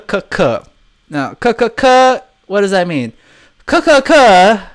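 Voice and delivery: short repeated "kuh-kuh-kuh"; imitated Korean laugh. Shown as a demonstration. Streamer explaining Korean laughter, demonstrated laugh syllables. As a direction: sound out a Korean text laugh. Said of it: "is the sound a person makes when they're laughing".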